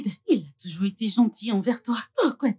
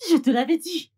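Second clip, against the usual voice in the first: told you so, higher and louder; insistent told-you-so; 6 semitones higher, 5 dB louder than usual. Acted. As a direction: drive the point home, louder. Répète, plus haut et fort. (je te l'avais dit, plus haut et plus fort)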